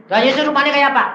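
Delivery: high, loud acted curiosity; re-enacted excited question; eager questioning.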